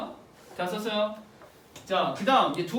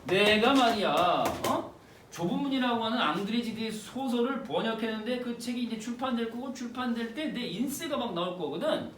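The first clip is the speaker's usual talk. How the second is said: lightly acted boastful drunk husband; drunken bragging. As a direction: act out a tipsy show-off husband. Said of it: "술만 취하면은 막 오버를 하는 거죠".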